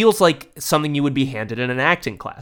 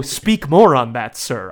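mock earnest request; 4 dB louder, slower than usual. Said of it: "I go".

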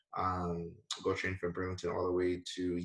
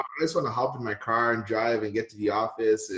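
whiny entitled brat voice; spoiled brat; 3 semitones higher, 4 dB louder than usual. Pretend. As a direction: whine it like a spoiled kid. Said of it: "I sound like a spoiled brat".

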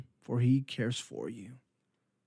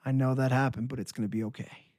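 gentle reassurance; faster than usual. Retold or imitated. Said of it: "He said".

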